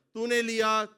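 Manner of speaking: loud, high proclaimed quote of Job; loud preached exclamation; Job's cry. Retold or imitated. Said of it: "Ayub نے یہی کہا تھا".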